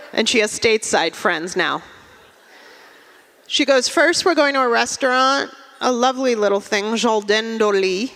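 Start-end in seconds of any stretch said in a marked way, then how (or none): 3.9-8.1 lightly pretentious Frenchified English; affected French accent. Acted. Friend invites stateside friends to dinner, affected French accent. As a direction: put French airs on the restaurant's name. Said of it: "suddenly she's Amélie in Paris".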